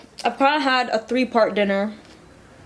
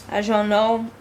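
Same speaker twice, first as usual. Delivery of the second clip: mouth full. Real, not acted. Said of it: "Sorry I'm chewing and talking".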